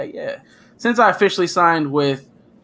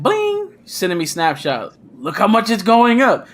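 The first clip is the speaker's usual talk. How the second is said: imitating excited friend; 6 semitones higher than usual. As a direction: squeal "Bling" very high, then brag to your buddy. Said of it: "you're like".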